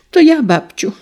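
put-on high, eager little girl crying out; a little girl's high cry of "it's me"; little girl calling out. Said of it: "zawołała Elżunia".

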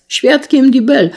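high, loud declaration; calling out. A narrator's reading. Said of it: "zawołał drugi raz".

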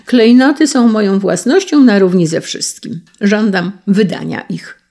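loud, hard demand. Acted. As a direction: demand the jewels forcefully. American demands the jewels.

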